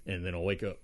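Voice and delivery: lightly put-on character accent; a hint of an invented player accent; muted, offhand character accent; made-up accent for Rube. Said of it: "I don't know why I'm giving him this accent".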